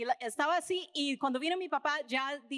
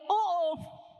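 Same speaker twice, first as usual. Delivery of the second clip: a startled, scared "oh, oh" in an odd voice; frightened gasp; 3 semitones higher than usual. Retold or imitated. Preacher reliving her dream of judgment, frightened gasp. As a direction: caught out and afraid, gasping.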